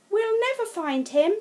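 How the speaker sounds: put-on despairing child. Sam despairing that they will never find Curly. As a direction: give up hope dramatically.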